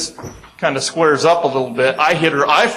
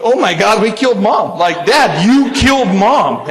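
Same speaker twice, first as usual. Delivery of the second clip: mock panic; 6 semitones higher, 4 dB louder than usual. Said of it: "And I'm thinking".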